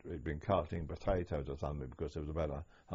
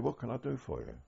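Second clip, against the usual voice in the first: imitated Bronx accent, pitched higher; a retold offer of help in a light American accent; 7 semitones higher than usual. Guard offering help to the prisoners, imitated American accent. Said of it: "in a very strong American accent, almost a Bronx accent".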